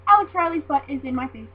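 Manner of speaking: loud re-enacted fangirl announcement; mock-astonished outburst; thrilled exclaiming. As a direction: blurt it out loud, delighted and amazed. Re-enacts fangirl thought during match.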